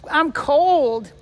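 put-on high, loud, slow old-man creak; Grandpa Simpson voice. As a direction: shout it slowly like a cranky old cartoon grandpa. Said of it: "I can do".

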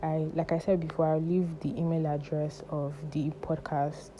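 breathless after a panic attack; talking short of breath. Real, not acted. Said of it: "I'm sorry I'm talking like this. I'm out of breath".

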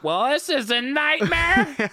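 squeaky high-pitched mock panic; slow high whine of dread; high mock wail. Retold panic in stairwell.

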